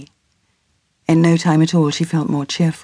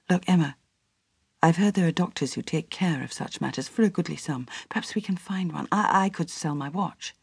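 much quieter, conspiratorial whisper; hushed urging; 10 dB quieter than usual. Acted. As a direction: Edwin whispering a shameful plan to Emma. Edwin's hushed urgent proposal.

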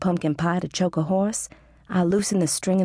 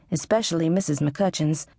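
ordinary delivery

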